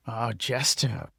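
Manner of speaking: slow address in a lightly put-on accent; drawn-out greeting with an affected accent; Ogre's put-on accent. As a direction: lay on a mild character accent. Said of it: "this accent thing".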